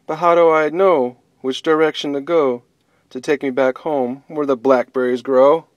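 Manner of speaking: lost bunny fretting aloud, a touch of sadness; sad bunny. Acted. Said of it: "the sad bunny wondered".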